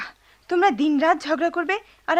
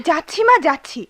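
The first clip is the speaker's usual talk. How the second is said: exasperated; 2 semitones higher, 4 dB louder than usual. Acted. Scolded daughter answers her mother.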